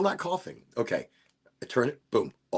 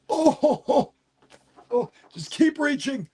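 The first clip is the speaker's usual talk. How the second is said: straining stretch; 10 semitones higher than usual. Real, not acted.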